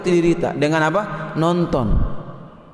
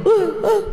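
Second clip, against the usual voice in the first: high, short fearful "eh" sounds; mock frightened yelps; 13 semitones higher than usual. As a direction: yelp as if spooked by a horror film. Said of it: "Akhirnya takut". (jeritan kecil pura-pura takut)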